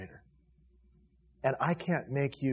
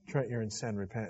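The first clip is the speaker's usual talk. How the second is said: soft, quiet and gentle, like God speaking to the heart; gentle still small voice; 4 semitones lower, 7 dB quieter than usual. Acted. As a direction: hush it down to a tender rebuke. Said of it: "a gentle and still small voice saying".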